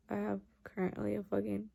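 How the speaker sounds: blocked nose, tired; talking through a nose splint. Real, not acted. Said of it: "my nose hurts and I really don't wanna talk".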